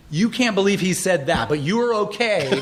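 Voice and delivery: drawn-out mocking reply with a laugh; amused scoff slowing on the punchline; sarcastic retort. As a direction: toss it back at them sarcastically. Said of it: "It was like".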